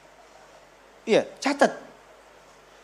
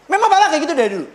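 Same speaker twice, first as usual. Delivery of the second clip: nagging wife; 5 semitones higher, much faster than usual. Acted. Wife digging up husband's past faults, high and fast nagging. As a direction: rattle off old grievances, needling.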